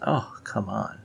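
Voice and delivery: normal talking voice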